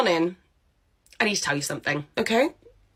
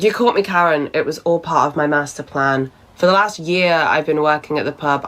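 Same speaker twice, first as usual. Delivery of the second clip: sarcastic; 3 semitones lower than usual. Acted. Sarcastic mock confession to boss.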